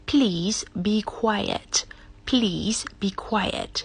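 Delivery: soft whispered please be quiet; pleading whisper. Shown as a demonstration. Teacher showing a polite soft request to be quiet. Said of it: "ให้รู้สึกว่าขอละ".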